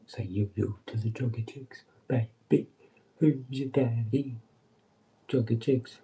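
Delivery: brash flirty heckle at joggers; cheeky catcall.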